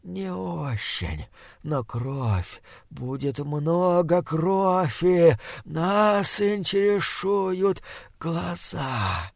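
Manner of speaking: slow, hushed gurgling monster. Acted. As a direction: bubble the words through spit. Monster continues speaking.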